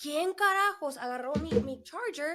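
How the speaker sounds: play-acted screaming in Spanish, high-pitched. A mother retells getting home with her kids and cooking dinner, retelling screaming at her kids. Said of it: "I'm screaming at my kids".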